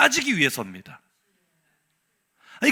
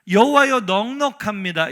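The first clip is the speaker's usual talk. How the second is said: protest slogan; 4 dB louder than usual. Retold or imitated. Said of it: "첫 번째 구호는요".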